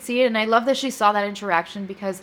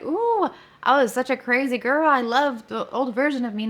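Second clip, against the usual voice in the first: mock gushing; 4 semitones higher, 4 dB louder than usual. Mock gushing over her old self.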